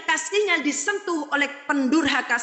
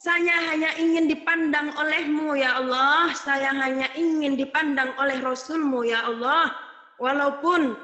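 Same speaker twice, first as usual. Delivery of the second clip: a hint of a pleading prayer; heartfelt prayer. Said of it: "Kita haturkan kepada Allah".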